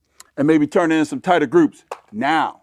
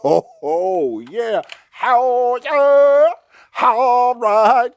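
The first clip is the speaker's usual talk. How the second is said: overjoyed whooping and laughing; jubilant whoop; 8 semitones higher, much slower than usual. Real, not acted. Celebrating last shot.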